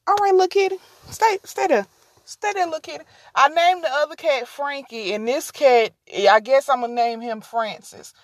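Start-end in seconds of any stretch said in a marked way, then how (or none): 0.1-3.0 much higher cooing at the kitty. Real, not acted. Coaxing the stray kitty to stay, higher cooing. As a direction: coo like to a pet. Talks sweetly to cat.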